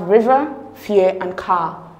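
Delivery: river, fear, car with the final R left silent. Shown as a demonstration. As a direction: drop the R at the end of "river", "fear" and "car", British style. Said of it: "the R is not pronounced".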